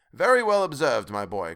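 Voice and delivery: high, loud burst of approval; proud father calling out praise; crying out. A narrator's reading. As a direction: start high and loud, then settle. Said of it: "cried Bob".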